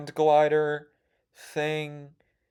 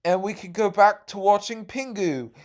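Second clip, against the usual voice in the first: higher, louder announcing lady voice; counselor lady; 8 semitones higher, 3 dB louder than usual. Retold or imitated. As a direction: announce the end of the game to the kids. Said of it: "the counselor lady was like".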